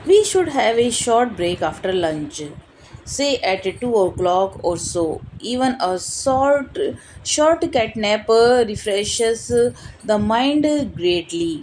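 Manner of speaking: slow, measured read-aloud; book reading. Acted. Reading a meditation book aloud to viewers, slow and measured. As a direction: read it out slowly, phrase by phrase.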